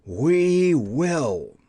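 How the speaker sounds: a big chorus-like roar from the beasts; mighty roared answer; beasts roaring assent. Acted. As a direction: roar it back as a crowd of beasts. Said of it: "all the other beasts roared with a mighty roar".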